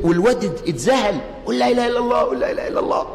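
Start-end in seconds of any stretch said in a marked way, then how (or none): 1.6-3.1 rising urgent cry of the creed; climbing desperate shout; urgent plea. Retold or imitated. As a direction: plead with a dying son to say it. Preacher voices dying man's urging.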